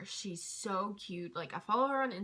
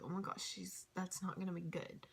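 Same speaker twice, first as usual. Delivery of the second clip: worried murmur; 3 semitones lower, 10 dB quieter than usual. Retold or imitated. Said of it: "I was like".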